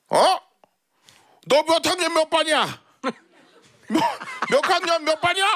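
put-on high, scolding old lady with laughs; foul mouthed granny. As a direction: bark at him like a cranky granny. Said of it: "욕쟁이 할머니".

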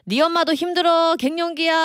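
high, firm defending voice; husband defending. Retold or imitated. Husband defends mom to a teen, firm and high. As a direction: stand up for mom. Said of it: "남편이".

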